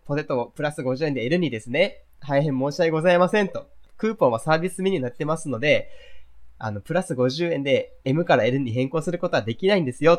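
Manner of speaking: customer service voice. Shown as a demonstration. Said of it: "私の意見を受け止めて".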